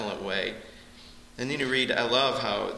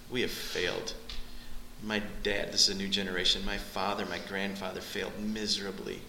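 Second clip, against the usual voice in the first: remorseful confession; 3 semitones lower, 5 dB quieter than usual. Retold or imitated. People voiced confessing failure.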